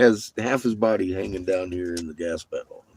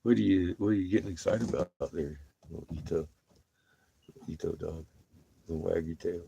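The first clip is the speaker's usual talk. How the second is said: softer pet talk, quicker; soft talk to dog; 6 dB quieter than usual. Real, not acted. Talking to the dog Ito, soft and quick. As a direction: coo at the dog.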